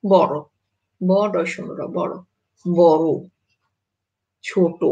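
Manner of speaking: বড় said as boro, ছোট as chhoto; final o sounded. Shown as a demonstration. Teacher listing exception words for students, final o sounded. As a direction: end বড় and ছোট on a clear o. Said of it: "ব্যতিক্রম".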